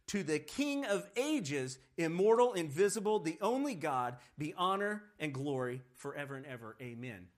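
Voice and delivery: a formal, ringing benediction; solemn scripture reading. Shown as a demonstration. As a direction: read it like a liturgy, with weight. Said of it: "that almost sounds like a song".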